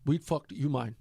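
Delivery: rough African accent impression; a clumsy try at an African accent; bad African accent. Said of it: "African accent? ... I think that was horrible".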